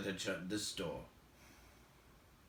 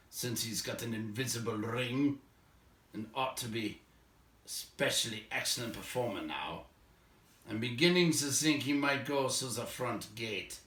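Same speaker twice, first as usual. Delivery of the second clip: a touch of dwarvish scorn; sneering dwarf; 5 dB louder than usual. Acted. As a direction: scoff at the useless burglar. Dwarf mocks the burglar.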